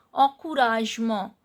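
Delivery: "Encouragement" with nasal first and last vowels; nasal EN, silent T. Shown as a demonstration. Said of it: "E N sound is nasal sound and T is not pronounced".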